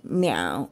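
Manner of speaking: lightly voiced pleading kitten cry; pitiful meow. A narrator's reading. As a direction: mew like a frightened kitten asking for help. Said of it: "దీనంగా".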